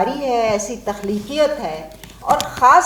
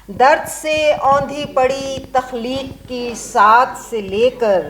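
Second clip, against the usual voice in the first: measured, declaimed Urdu verse, each phrase set apart; stately verse delivery with falling line endings; poem recitation. Acted. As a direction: recite a nazm to a mushaira audience, lifting repeated lines. Recites her own nazm.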